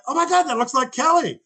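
high, stunned exclamation; excited amazement. Retold or imitated. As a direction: she can't believe what she sees. Wife sees son's face.

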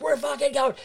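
the captain in a state, rushing; imitating panicked captain. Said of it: "He's like".

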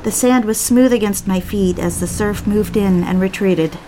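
calm first-person audiobook narration; story narration. A narrator's reading. Wife recounting the night swim to listeners, calm narration. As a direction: tell it as an intimate memory, evenly paced.

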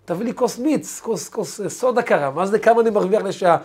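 irritated father brushing off the question; storyteller voicing a fed-up father; annoyed father. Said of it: "אבא כעס על השאלה".

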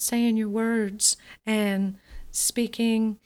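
slow, airy, breathy speech; weak, breathy sound without projection; real breathy. Shown as a demonstration. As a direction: let the breath leak through the words. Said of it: "making your sound real breathy".

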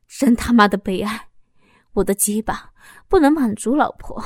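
bitter, rising accusation; pained accusation. Acted. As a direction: hurl the betrayal back at her. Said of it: "痛苦地说着". (丈夫痛苦地质问出轨的妻子)

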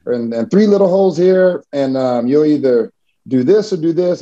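imitating the doctor's booming voice. Doctor explaining surgery to a scared teen, mock booming. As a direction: lightly mimic the doctor, lifted and confident. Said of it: "he's got this really booming voice".

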